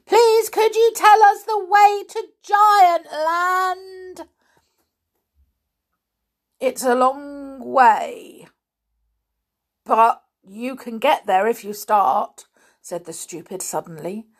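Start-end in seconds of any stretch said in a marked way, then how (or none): 0.0-4.3 much louder and higher, slow and drawn out; loud repeat for a deaf stranger. A narrator's reading. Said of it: "this time in a very loud voice". 6.6-12.5 slow and drawn out, like each word costs effort; a dim villager straining to answer; lightly voiced slow stupid; effortful answer. A narrator's reading. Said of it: "as if it was a great effort to answer".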